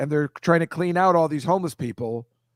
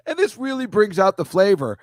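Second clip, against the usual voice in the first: mock chef voice; 5 semitones higher than usual. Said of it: "no way I'm gonna be like".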